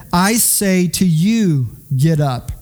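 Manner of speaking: I say to you, get up, slowed and spaced out; slow clear command. Retold or imitated. Jesus commanding the dead young man, slow and firm. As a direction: lay down each word as a firm order. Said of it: "this too was a clear command".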